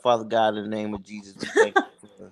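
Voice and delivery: low-key spoken prayer. Real, not acted. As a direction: begin praying the group out. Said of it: "Let me pray out".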